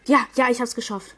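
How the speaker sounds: loud triumphant cheer; excited cheer. Real, not acted. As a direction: shout out the win. Just won the round.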